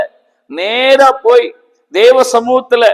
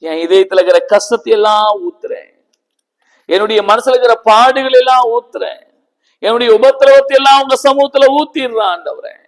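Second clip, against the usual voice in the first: pouring out her heart. Retold or imitated. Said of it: "இதயத்தை ஊற்றி".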